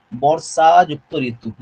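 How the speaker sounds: বর্ষাযুক্ত ঋতু split slowly into its two parts; slow spelling out. Shown as a demonstration. Teacher slowly breaks the word apart for students, slowly. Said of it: "বা এটা বর্ষাতু হতো নাকি?".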